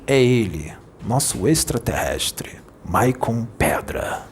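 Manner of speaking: slow, hushed, half-whispered joke announcement; playful whisper from a WhatsApp joke audio; mock mysterious whisper. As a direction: whisper it like a silly secret reveal. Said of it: "Aí eu fazia essa voz".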